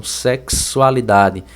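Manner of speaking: "sexualidade" slowed, X clearly as K-S; careful "sexualidade" with a K-S; matching sound. Shown as a demonstration. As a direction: split "sexualidade" after SEKS. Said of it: "a mesma sonoridade na pronúncia".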